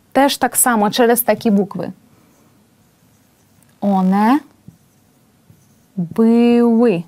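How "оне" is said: normal talking voice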